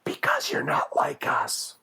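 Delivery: high, strained rasp, dragged out; slow, harsh, mostly voiceless mock menace; menacing exclusion. Southern parent shuts Arnold out, hammed-up raspy menace.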